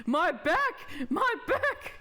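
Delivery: high, rising yelps of pain; pained cry. Acted. Old man complaining of his back, pained.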